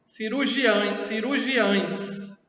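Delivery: "Cirurgiães" with the e of the ending sounded as i; final E as I. Shown as a demonstration. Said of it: "mesmo jeito".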